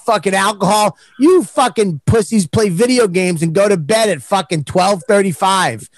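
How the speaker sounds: imitating a fed-up driver complaining; griping bus driver. Bus driver griping to the comic about boring tour. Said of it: "I goes".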